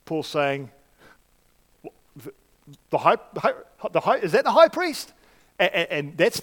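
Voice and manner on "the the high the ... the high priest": a touch of feigned surprise, rising, with a laugh; lightly sarcastic disbelief; mock sarcastic. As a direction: play dumb about the high priest, half amused. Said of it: "he's being a bit sarcastic".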